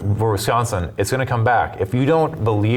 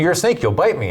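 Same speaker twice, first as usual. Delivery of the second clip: alarmed refusal; 8 semitones higher than usual. Retold or imitated. The farmer in the fable recoils from the snake, mock alarmed and higher. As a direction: pitch jumps up high on snake, a mock alarmed cry.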